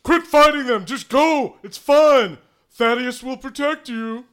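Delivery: high, loud urgent pleading; Thaddeus. Acted. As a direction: call out frantically to stop the fight. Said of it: "Thaddeus is going".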